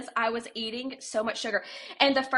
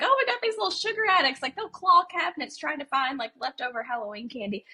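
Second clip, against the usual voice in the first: high, fast joking mom voice; mock exasperated moms; 4 semitones higher, faster than usual. Moms joking at dinner about sugar addicts, high and fast. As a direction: toss it off laughing at the kids.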